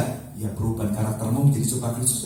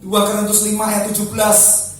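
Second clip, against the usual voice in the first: loud, higher preaching of the verse; proclaiming scripture; 7 semitones higher, 8 dB louder than usual. Acted. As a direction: declare the verse loudly to the church. Reads verse aloud.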